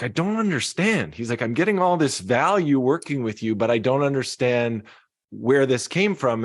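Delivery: lightly voiced puzzled executive; CEO quote.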